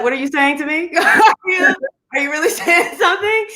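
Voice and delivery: high raspy Southern imitation of a singer with a laugh. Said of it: "her signature in Proud Mary".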